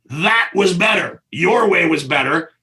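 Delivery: generous George. Retold or imitated. George tells the director his way was better, emphatic. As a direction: insist warmly, each word weighed. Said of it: "and he goes".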